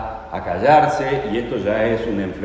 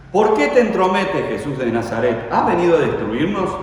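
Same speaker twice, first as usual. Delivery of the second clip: shouted high and loud, accusing; demon's shout; 6 semitones higher, 5 dB louder than usual. Acted. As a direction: hurl the question like a cornered demon. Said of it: "un grito". (grito desafiante del demonio, agudo y fuerte)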